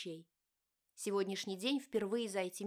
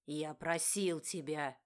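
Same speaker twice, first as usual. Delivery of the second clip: lower, slow, heavy husband voice; lowered furious husband; angry outburst; 4 semitones lower, slower than usual. A narrator's reading. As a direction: hammer each word down. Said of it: "снова выкрикнул он".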